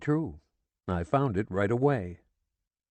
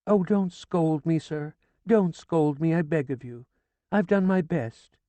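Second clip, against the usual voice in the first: high, pleading whine; frightened begging; 8 semitones higher than usual. A narrator's reading. Widow begging the sergeant not to scold, frightened. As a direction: beg him not to scold.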